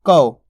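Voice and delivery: कौ with a wide au glide, falling; correct vowel demo. Shown as a demonstration. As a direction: stretch कौ from open a into u. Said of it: "कौ बोलना आपको".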